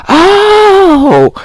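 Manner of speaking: high, loud "oh" of understanding; sudden realisation. Retold or imitated. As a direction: exclaim as it finally clicks. Acting out finally understanding the question.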